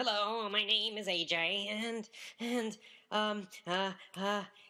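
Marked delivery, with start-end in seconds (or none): 0.0-1.7 put-on tight, nasal, hesitant voice. Recalling standing up to introduce himself, imitating his tight nasal voice. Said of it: "this is what I sounded like".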